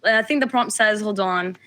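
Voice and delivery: put-on British accent. Shown as a demonstration. Caller shows off her British accent on request, British accent. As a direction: talk in your British accent. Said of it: "give us your British accent right now".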